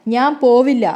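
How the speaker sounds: a stubborn daughter's loud, defiant refusal. A narrator's reading. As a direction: throw ഞാൻ പോവില്ല out loudly and defiantly. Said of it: "ധാർഷ്ട്യത്തോടെ ശബ്ദം ഉയർത്തി പറയുന്നുണ്ട്".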